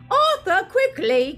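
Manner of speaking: shrill high urgent cry. Acted. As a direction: yell for him to hurry. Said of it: "cried Missus Weasley".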